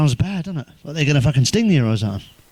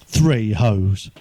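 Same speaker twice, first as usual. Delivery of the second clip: laughing repeat; 4 semitones lower than usual. Real, not acted. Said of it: "repeats the punchline laughing".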